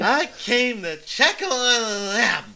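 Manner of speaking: put-on slow, slurred drunk talk. Drunk hero explaining why he came. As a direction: drawl it tipsy.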